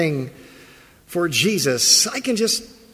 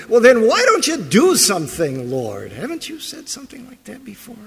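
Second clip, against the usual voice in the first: louder, higher challenge, then dropping off; demanding accusation; 8 semitones higher, 5 dB louder than usual. Retold or imitated. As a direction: demand that the Lord finally act. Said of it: "second half of that prayer".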